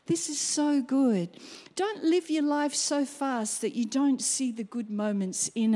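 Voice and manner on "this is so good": mild awe. Shown as a demonstration. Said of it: "and go".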